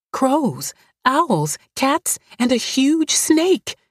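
put-on high, frightened child, slowing at the end; crying out in fear. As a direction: cry out like a scared girl. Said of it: "she cried".

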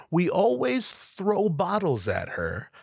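drawn-out, high lazy guy voice, mocking; slow mock dude voice. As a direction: slowly savor each word like the guy did. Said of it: "Actual statement".

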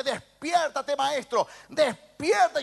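dramatized plea for help; acted urgent cry. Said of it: "y le grita".

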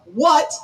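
"What" set apart and punched; stress on What. Shown as a demonstration. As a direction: land firmly on "What". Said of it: "emphasis on what".

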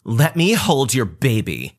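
entitled cousin. Retold or imitated. Cousin demands to hold baby.

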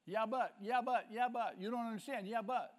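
high, loud, insistent objections; mock protesting excuses. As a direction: keep butting in defensively. Mimicking people who make excuses.

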